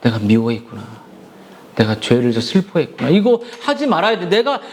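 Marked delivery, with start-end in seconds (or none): 0.0-3.1 crying lament. Retold or imitated. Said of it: "이렇게 막 울면서".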